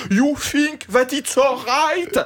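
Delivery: mock a Frenchman's clumsy English, slowly; French accent in English. Mocking a passenger who speaks English with a French accent. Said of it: "parle anglais avec un accent français".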